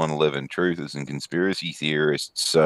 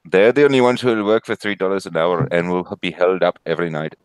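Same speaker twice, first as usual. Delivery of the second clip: put-on Australian accent. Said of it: "he's putting on an Australian accent".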